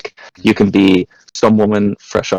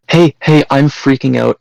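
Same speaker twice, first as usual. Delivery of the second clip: higher, louder mock freak-out; panicked caller; 6 semitones higher, 4 dB louder than usual. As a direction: play a frantic caller starting urgent. Frantic prank caller act.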